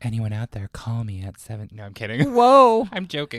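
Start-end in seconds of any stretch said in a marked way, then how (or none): 0.0-1.7 quieter, put-on ghost voice. Practicing to get a character voice down: Sex Ghost voice. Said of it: "trying to get the Sex Ghost voice down".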